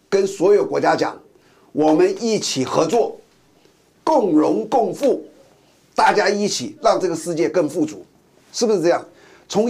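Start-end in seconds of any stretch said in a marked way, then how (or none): 1.7-8.0 slow, friendly sales pitch, stretching out 共荣共富; smiling offer. Retold or imitated. China offering money to every country, in a slow, smiling, friendly tone. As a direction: invite them warmly with a smile. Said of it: "微笑的".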